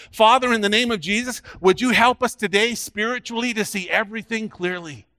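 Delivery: petition God on the people's behalf; earnest public prayer. Real, not acted. Preacher asking God for spiritual insight, praying earnestly.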